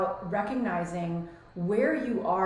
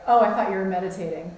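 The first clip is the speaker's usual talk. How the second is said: mock judgy husband, louder; 7 dB louder, faster than usual. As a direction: imitate a judgmental remark. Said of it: "so judgy".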